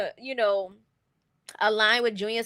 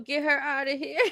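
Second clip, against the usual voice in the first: laughing through a quote. Retold or imitated. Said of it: "I was laughing".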